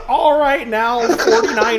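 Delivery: put-on old prospector. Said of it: "you sound like a prospector".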